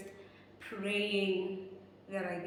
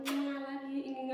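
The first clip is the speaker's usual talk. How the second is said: higher, put-on lovey-dovey imitation; weird affection; 5 semitones higher than usual. Imitating the guy at the drop-off, mock lovey-dovey. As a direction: mimic his odd sweet talk, pitched up. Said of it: "He even does weird gestures like".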